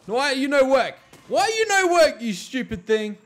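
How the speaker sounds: high, loud broken-English scold; frustrated yell. Real, not acted. Gamer scolding his flamethrower build, frustrated yell. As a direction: scold the machine. Machine not working.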